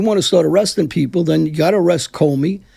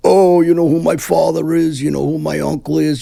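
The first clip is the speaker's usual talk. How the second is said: mocking wannabe gangster; 3 semitones higher, 4 dB louder than usual. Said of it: "They're all the same".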